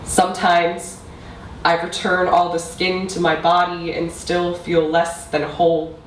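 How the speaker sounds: measured recital with long pauses; spoken-word poetry. Acted. Poet addressing mother about a lost language, measured spoken-word delivery. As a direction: let each line land before the next. Recites own poem to audience.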